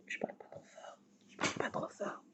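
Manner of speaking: unvoiced whisper, very soft. Real, not acted. To viewers, whispering so her husband can sleep. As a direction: hush so the sleeping husband stays asleep. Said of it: "Je parle pas trop fort parce que mon homme se lève".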